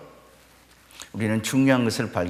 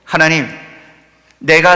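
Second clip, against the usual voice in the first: wailing prayer; 3 semitones higher, 8 dB louder than usual. Retold or imitated. King Hezekiah wailing to God, loud plea. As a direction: cry out to God, begging. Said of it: "통곡하며 기도하면서 하나님 앞에 매달립니다".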